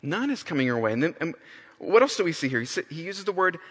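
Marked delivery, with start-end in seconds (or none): 0.0-0.9 gentle offer. Shown as a demonstration. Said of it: "God offers us this banner".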